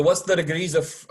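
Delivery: hammed-up, bad Irish accent. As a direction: slip into a cheesy Irish lilt. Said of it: "in a bad accent".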